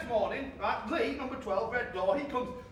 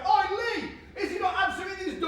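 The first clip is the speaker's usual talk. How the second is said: imitating a shout; 7 semitones higher than usual. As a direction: call out like a nosy neighbour, quick on the second line. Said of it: "in his dressing gown shouting".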